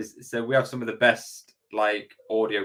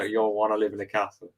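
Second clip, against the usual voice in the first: imitated Southern US accent; 4 dB quieter than usual. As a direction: say it like an American Southerner. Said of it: "when it's a Southern accent".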